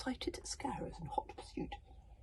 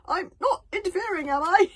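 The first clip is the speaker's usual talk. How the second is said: anxious; 14 semitones higher, 13 dB louder than usual. A narrator's reading. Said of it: "he said anxiously".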